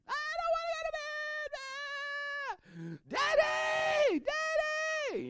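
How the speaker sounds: put-on high, screaming toddler tantrum. Toddler in her bed screaming for daddy, high wailing shout. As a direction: shriek like a little girl refusing bed. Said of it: "she's screaming".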